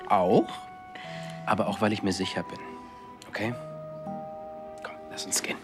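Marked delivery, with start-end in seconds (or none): 4.8-5.6 whisper. Acted. Whispered line, unvoiced.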